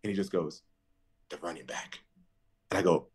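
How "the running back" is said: much softer, flat correction; a hint of a stern coach, soft; curt coach. Coach quietly pointing out his mistake, curt.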